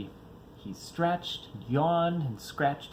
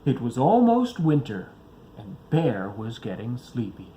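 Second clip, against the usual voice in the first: proud storyteller; 2 semitones lower, 5 dB louder than usual. Acted. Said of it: "began his story with".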